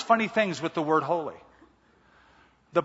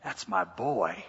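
a lightly voiced proud heavenly Father, lower; God's proud voice; 7 semitones lower, 5 dB quieter, slower than usual. Pastor voices God praising his child, lightly lower and proud. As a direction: speak as God looking down in pride, a touch deeper. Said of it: "look down from heaven and say".

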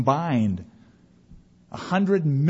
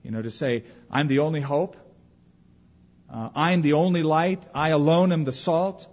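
overwhelmed believer. Pretend. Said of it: "you might say".

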